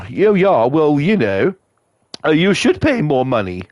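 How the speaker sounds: lightly put-on posh English accent; mock posh. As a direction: imitate a snooty posh man. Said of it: "Great posh voice".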